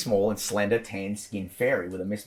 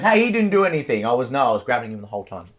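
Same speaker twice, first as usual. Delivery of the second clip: high, fast, defensive fairy; squeaky little fairy protesting; 4 semitones higher, 6 dB louder, faster than usual. Acted. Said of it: "he goes".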